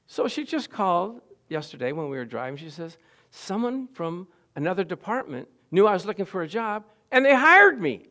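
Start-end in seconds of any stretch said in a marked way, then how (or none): 3.3-8.1 rejoicing. Retold or imitated. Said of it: "She rejoiced".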